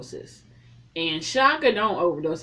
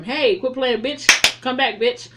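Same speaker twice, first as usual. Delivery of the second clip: louder, higher, hammed-up urgent yell; mock frantic rousing; 4 semitones higher, 5 dB louder, slower than usual. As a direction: yell as if slapping someone awake. Acting out slapping an overdoser awake.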